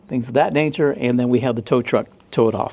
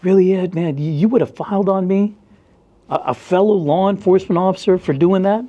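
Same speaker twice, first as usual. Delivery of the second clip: lightly raised, hurt whine; a hint of the offended cop; mock wounded coworker; 5 semitones higher than usual. Coworker complaining at the jail, mildly higher hurt voice. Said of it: "He's like".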